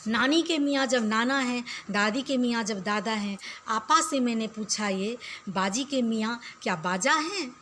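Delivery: steady rhythmic verse reading for pupils; poem recitation. Acted. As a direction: read the rhyme out to the class. Teacher recites poem again.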